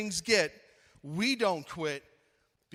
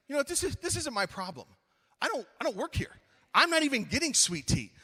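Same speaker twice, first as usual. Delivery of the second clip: higher-pitched, defensive disclaimer; retold protest; 6 semitones higher, faster than usual. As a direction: protest your innocence in a raised pitch. Protesting to staff after tea spill.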